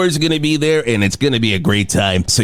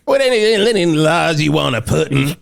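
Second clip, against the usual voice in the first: higher-pitched Southern imitation; mock Southern accent; 4 semitones higher than usual. Host teasing co-host about his accent, mock Southern. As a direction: mimic a co-host's accidental Southern accent. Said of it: "Are you Southern all of a sudden?".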